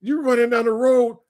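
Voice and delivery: high-pitched exasperated retold scolding; mock scolding. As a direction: tell off a foolish buddy. Buddies scold Dave for flashlight.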